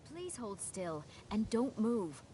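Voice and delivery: slow, deliberate, placating; slow careful instruction. Acted. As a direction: ease them into holding still. Mage instructs before casting spell.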